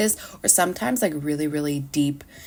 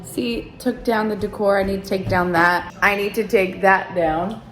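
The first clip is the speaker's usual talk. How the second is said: echoey room. Real, not acted. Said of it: "it's really echoey in here".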